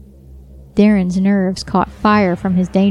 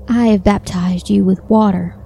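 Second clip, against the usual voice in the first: whispering. Acted. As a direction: whisper it like a sweet girl. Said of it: "That was Sonya's voice again".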